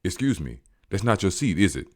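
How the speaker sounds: rude sarcastic quote. Retold or imitated. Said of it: "some goofy ass cornball ... like this".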